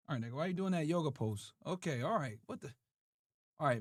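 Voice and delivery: hushed, talking to a pet; soft talk to dog. Real, not acted. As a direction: murmur to the dog.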